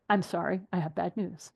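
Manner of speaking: breaking bad news to a no-show; gentle bad news. Shown as a demonstration. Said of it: "That's the way you phrase it".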